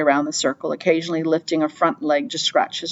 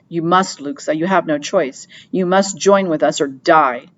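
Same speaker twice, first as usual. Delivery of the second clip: cold. Acted. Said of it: "said Henry coldly".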